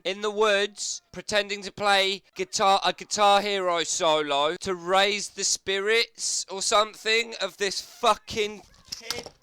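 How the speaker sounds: can't believe what he's seeing; incredulous. Real, not acted. Commentator watching a grown man play air guitar, incredulous shout.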